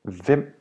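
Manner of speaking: "hvem" starts on V, no H; mute H. Shown as a demonstration. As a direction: say "hvem" with a silent H. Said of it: "notice the H is mute".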